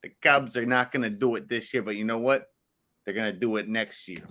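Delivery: put-on a playful Chicago accent, only lightly done; hamming up a Chicago local who hypes the Cubs. Answering the co-host's request for his best Chicago, in a light Chicago accent. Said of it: "Give me your best Chicago".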